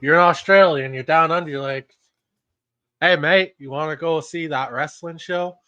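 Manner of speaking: mock Australian wandering into Canadian and British; muddled Australian accent. Co-host playing an Aussie inviting a mate to wrestling, muddled Australian accent. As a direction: put on a badly mixed-up Australian accent. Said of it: "a mixture of a whole bunch of accents".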